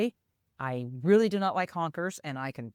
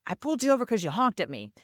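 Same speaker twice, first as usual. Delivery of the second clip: raised, hurried retelling of an irritated cop; mild mock indignation, quick and higher; frustrated officer; 5 semitones higher, faster than usual. Officer explains the stop to the driver, frustrated. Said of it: "just kinda frustrated".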